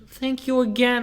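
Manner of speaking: put-on high old lady voice; old lady customer. Old lady thanks the worker while leaving, high voice. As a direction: call back thanks as a sweet old lady.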